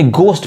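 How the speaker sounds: घोस्ट with a plain g, "gost"; घोस्ट as unaspirated "gost"; silent H. Shown as a demonstration. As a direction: say घोस्ट without the h. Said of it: "यहाँ एच silent है".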